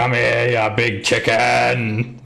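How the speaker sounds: put-on slow, lightly slurred drunk; drunk patron. Drunk sailor grabs at the chicken-suited bard, slowly. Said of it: "Looks really, really drunk".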